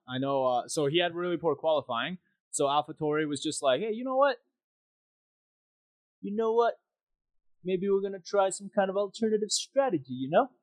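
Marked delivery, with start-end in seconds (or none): 3.8-10.5 high, hammed-up mock Italian accent; bad Italian accent. AlphaTauri team pitching a tyre gamble, in a mock Italian accent. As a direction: play the AlphaTauri pit wall in a jokey fake Italian accent. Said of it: "a really poor Italian impersonation".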